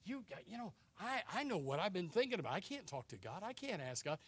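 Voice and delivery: soft, sheepish confession; acted guilty admission under the breath; ashamed. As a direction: shrink back quietly, too guilty to pray. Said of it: "we're kind of ashamed".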